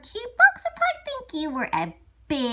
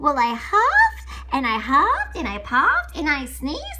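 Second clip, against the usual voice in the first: huffing and puffing; 6 dB louder than usual. Acted. Wolf huffs and puffs.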